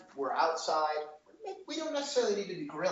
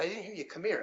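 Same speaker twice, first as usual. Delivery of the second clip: retold calm, slightly softer voice; mock calm; 4 semitones higher, 4 dB quieter than usual. Chef retelling his reply to a new server, mock calm. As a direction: act out a composed, restrained order. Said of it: "in the most calmest way possible".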